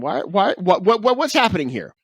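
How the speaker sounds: high, mock-shocked questions; mock outrage. Host teasing his cohost about the headphones, in mock outrage. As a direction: pretend to be appalled.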